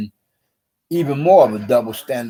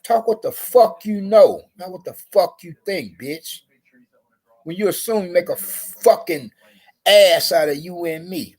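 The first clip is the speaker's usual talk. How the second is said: mock angry retort; 6 semitones higher than usual. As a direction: throw it back at her, high. Retold retort to guard.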